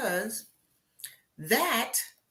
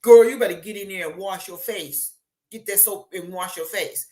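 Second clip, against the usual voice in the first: put-on loud, bossy mom telling a girl to wash up; scolding mother; 6 dB louder than usual. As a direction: bark it like a mom at her daughter. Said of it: "I grew up with the whole".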